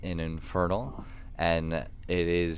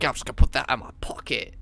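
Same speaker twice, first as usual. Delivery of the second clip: quick, higher, airily casual mock voice; mock nonchalant; 5 semitones higher, faster than usual. GM mocking the player's pocket plan, in a breezy casual voice. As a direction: wave it off like it's nothing. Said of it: "I was like".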